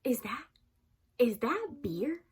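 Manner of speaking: slow, half-whispered "is that beer?"; suspicious hush. Retold or imitated. Mom suspicious, slow and hushed.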